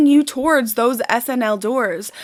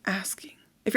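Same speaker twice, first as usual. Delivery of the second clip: drops to a whisper; hushed repeat of the question; whispered aside. Real, not acted. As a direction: breathe the words out, unvoiced.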